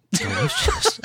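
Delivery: high, drawn-out delicious; mock connoisseur savoring. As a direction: relish the word like a fine wine. Savoring the wine pairing.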